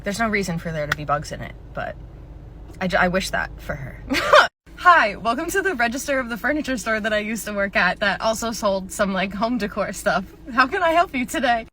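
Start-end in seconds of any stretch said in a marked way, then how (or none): 4.8-11.7 bright customer service voice; chirpy retail greeting; cheery cashier voice. Acted.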